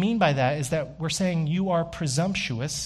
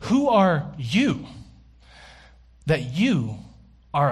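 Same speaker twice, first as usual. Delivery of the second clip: challenging question; 4 dB louder, slower than usual. Pretend. Voicing God's challenge.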